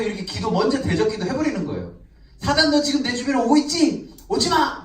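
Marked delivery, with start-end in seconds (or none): 2.4-4.8 loud, higher, commanding rebuke; rebuking Satan. Pretend. Preacher rebukes Satan in a demonstrated prayer, loud commanding shout. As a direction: drive the devil off with a sharp shout. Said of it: "막 이렇게".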